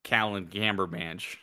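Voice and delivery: slow cartoonish Minnesotan vowels; Minnesotan accent. Co-host offers the villain's rebranded name, Minnesotan accent. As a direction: stretch it in a broad Minnesotan accent. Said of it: "I was going for more of a Minnesota".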